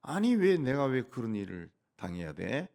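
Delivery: a touch of retold outrage; preacher lightly voicing a resentful king; mild indignant protest. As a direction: protest lightly, half-acted. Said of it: "하고 막 화가 났다는 거지".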